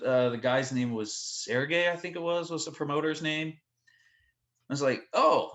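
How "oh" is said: higher, louder stunned okay. Retold or imitated. Band member hearing Putin is coming, stunned and louder. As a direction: react as if floored by the news.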